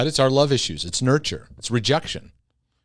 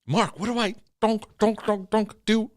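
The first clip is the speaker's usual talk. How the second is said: much higher, pleading, babbling the dunks; whiny confused voice; 9 semitones higher than usual. Acted. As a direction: play a flustered person begging for help. Listener whining about whack-a-mole.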